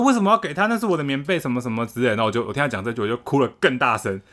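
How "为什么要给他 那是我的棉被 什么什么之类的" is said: put-on high, indignant kid's protest; mock outrage of a kid defending his blanket; protesting brother. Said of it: "然后后来我哥说".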